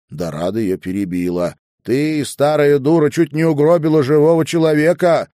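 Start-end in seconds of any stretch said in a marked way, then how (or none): 1.8-5.3 loud, higher, fast angry outburst; furious insult. Acted. Dorada berates grandmother for nearly killing someone, furious shout. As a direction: lash out at the old woman.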